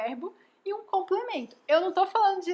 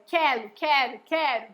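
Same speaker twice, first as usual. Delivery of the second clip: imitating toddler talk. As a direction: lightly mimic a small child's pronunciation. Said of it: "Ou ela fala só".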